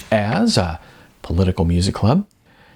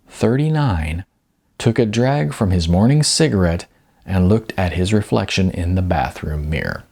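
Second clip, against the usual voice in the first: measured audiobook reading with dramatic pauses; story narration. A narrator's reading. Author reading his novel aloud to listeners, measured narration.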